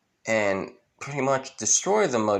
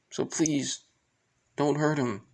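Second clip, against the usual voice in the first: higher, softer entreaty; soft pleading; 4 semitones higher, 3 dB quieter than usual. Retold or imitated. Guy begging for his brother, soft plea. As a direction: beg gently, pitch raised. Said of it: "With the guy saying".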